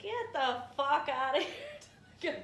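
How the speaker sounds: loud, drawn-out telling off; mock angry dismissal. Comic telling her friend how she rejected a boring guy, mock angry. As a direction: send him packing with comic force.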